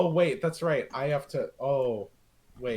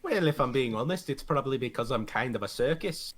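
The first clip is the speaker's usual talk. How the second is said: dry sarcasm, trailing lower; deadpan it with understated sarcasm; very sarcastic; 3 semitones lower, 4 dB quieter than usual. Acted. Mercenary answering why he was asked here, sarcastic. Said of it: "I say that with, like, a very sarcastic tone".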